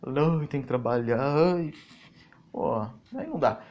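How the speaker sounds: drawn-out whine, imitating a complainer; mock grumbling. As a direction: moan it wearily, making fun of the grumbler. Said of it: "todo dia aquele rancor". (resmungo arrastado, imitando quem reclama)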